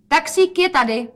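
high, loud announcement; calling out. A narrator's reading. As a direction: call it out to the whole flat. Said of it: "zvolala Rozetka".

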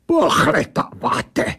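odd angel echoing "Pohledáváte" with disdain; mocking echo by the angel. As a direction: snap "Pohledáváte" back slowly in scorn. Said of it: "vybafla ta věc".

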